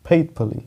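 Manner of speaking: "faithfully" drawn out slowly, ending fli; slow correct pronunciation. Shown as a demonstration. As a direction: model "faithfully" slowly for the class. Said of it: "इसका जो उच्चारण है".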